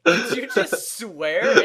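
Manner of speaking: slow, high, laughing disbelief; shocked. Retold or imitated. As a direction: stretch it out in mock shock. Kid shocked at dad swearing.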